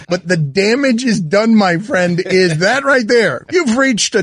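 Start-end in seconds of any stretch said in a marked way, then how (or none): 0.1-2.2 condescending. Retold or imitated.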